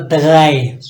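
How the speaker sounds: दगाए said loud as German drei. Shown as a demonstration. Teacher reminds students of German three, firm. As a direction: recall दगाए clearly. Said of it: "three को आपने क्या यहाँ पर पढ़ा था".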